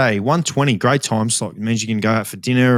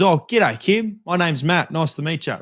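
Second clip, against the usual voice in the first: imitating the other guy; 5 semitones higher than usual. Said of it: "I then hope goes".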